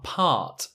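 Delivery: part with a long open ah; part, long open back ah. Shown as a demonstration. Teacher repeats part with the long ah.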